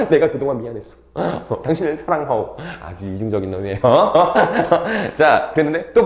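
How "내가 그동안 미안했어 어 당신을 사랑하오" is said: mock romantic apology. Husband wooing his transformed wife.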